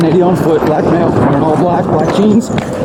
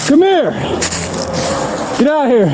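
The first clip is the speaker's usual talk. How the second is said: shouting; 6 semitones higher than usual. Real, not acted. Officer shouting at suspect.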